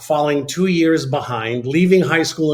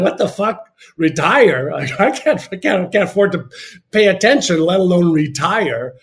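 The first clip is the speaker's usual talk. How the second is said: higher, louder retold disbelief; incredulous outburst; 4 semitones higher, 3 dB louder than usual. Young man asking why he'd plan retirement, incredulous outburst. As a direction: replay the shock of being asked about retiring. Retold shocked reaction to question.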